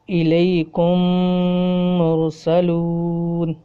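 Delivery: الیکم مرسلون with the two meems merged and held nasal; drawn-out Quranic recitation, مرسلون slowed right down; nasalized merged meem. Shown as a demonstration. Teacher demonstrates idgham with ghunna, slow recited. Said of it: "غنہ ہو رہا ہے".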